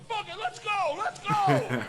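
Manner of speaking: high-pitched hyped-up yell; fired-up bravado. Retold or imitated. Comic retells his beer-fuelled decision to jump, hyped-up yell.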